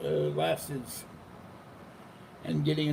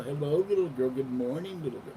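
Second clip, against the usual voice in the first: gentle greeting; 3 semitones higher than usual. Retold or imitated. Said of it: "all I'm doing is sitting up and go".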